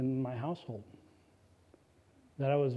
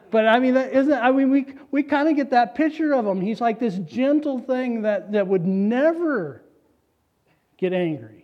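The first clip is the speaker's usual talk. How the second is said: louder, higher, driving sermon voice; preaching at full force; 8 semitones higher, 8 dB louder than usual. Real, not acted. Pastor to congregation, forceful preaching. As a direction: press the point home to the pews.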